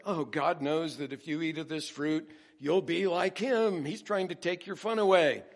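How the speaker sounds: hammed-up sly accusation; mock-incredulous tempter. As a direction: scoff at it as the tempter. Acting Satan maligning God.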